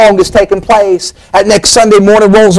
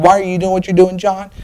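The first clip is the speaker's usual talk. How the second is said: softer, almost private repeat of the question; hushed question; 7 dB quieter than usual. Acted. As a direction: ask it again gently, close in.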